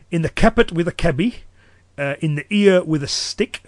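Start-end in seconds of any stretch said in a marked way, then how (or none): 0.1-1.4 Cumbrian dialect. Shown as a demonstration. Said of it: "I gave a phrase in Cumbrian".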